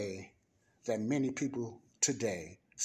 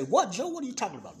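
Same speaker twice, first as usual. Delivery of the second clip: mock disbelief, pitched much higher; imitating a baffled listener; 10 semitones higher, 5 dB louder, much faster than usual. Preacher voicing a confused listener in his flock, incredulous and high. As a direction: squeak out a doubter's "what?". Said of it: "You must say".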